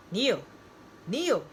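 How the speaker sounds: fearful yell. A narrator's reading. John calling Neil on a dropping line, fearful yell. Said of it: "fearfully yell".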